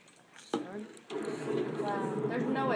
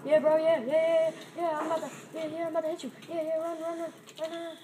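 excited yelling; 7 semitones higher, 4 dB louder than usual. Real, not acted. Frantic chase in game.

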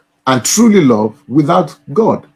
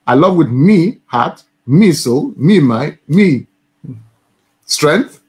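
Scouse accent. Shown as a demonstration. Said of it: "let's repeat that your again".

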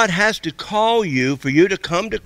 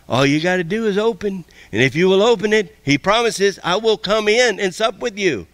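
lightly voiced, higher, inviting; God's gentle voice; 5 semitones higher than usual. God knocking at a seeker's door, lightly inviting. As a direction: coax someone to open the door. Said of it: "That's the small, still voice".

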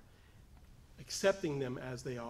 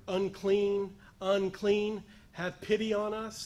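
raised, higher cry for pity; lepers calling out; 4 semitones higher, 4 dB louder, slower than usual. Acted. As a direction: call out loudly, pleading from a distance. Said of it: "They're saying".

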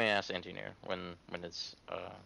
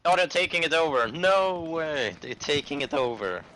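alarmed; 4 semitones higher than usual. Real, not acted. Objective being captured.

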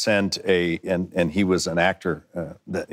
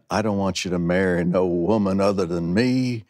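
fan letter voice. Retold or imitated. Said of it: "as a female".

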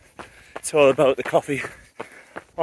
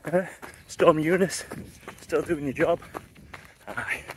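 talking mid-run, a little breathless; while running. Real, not acted. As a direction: speak while jogging along. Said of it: "enjoy the run".

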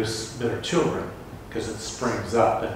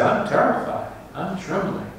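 frightened; 7 semitones higher than usual. Acted. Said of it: "so frightened at the sight that he said".

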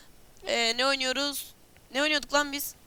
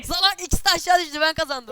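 fast excited shout; 3 semitones higher, 4 dB louder than usual. Real, not acted. Excited shouting about win.

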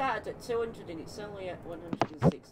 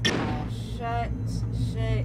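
sudden loud higher curse; startled swear; 6 semitones higher, 8 dB louder, much slower than usual. Real, not acted. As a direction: blurt it out in a fright. Jump scare in horror game.

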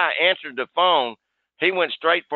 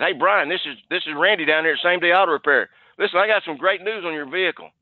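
over-the-top sales pitch; 4 semitones higher than usual. Shown as a demonstration. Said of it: "just kinda go over the top".

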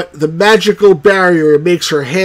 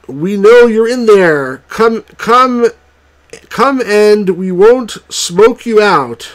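raised, higher calls from a crowd outside; mob calling out; 4 semitones higher than usual. Acted. The angry mob outside the cottage calls in, raised and higher.

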